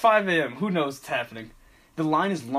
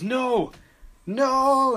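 high, raised mock cry of refusal; mock yelling; 9 semitones higher, 4 dB louder than usual. Traveller defying the TSA agent, mock yelling. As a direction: imitate a defiant man crying out. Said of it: "have to stop yelling".

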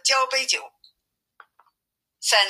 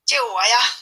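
calling for help; 4 semitones higher than usual. Acted. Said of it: "叫道".

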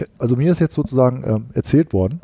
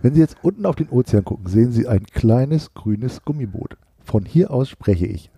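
airline pilot announcement; 4 semitones lower than usual. Pretend. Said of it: "hier spricht Ihr Kapitän".

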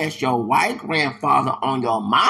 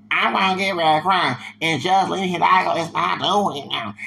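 mock Southern accent; 3 semitones higher than usual. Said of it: "How did you get a Southern accent".

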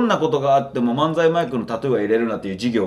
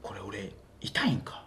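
Hiroshima dialect; 5 semitones lower, 16 dB quieter than usual. Retold or imitated. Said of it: "広島弁でね。".

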